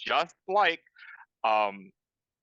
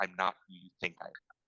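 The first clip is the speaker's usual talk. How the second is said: put-on hushed half-whisper; 7 semitones lower, 8 dB quieter than usual. Voicing a man who answers a player's offer of help: half-whispering in character. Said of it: "he also whispers".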